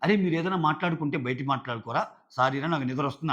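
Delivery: gentle, apologetic ask to take the talk outside; polite request. Shown as a demonstration. Asking housemates politely to talk outside, gentle. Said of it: "అది ఎలా ఉంది?".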